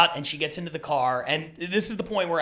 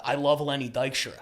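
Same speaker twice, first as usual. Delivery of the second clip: mumbled; 2 semitones lower than usual. Retold or imitated. Passenger shaking the driver's hand from behind, mumbling. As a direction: lightly mumble it, running the words together. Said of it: "he's mumbling, so I think he says".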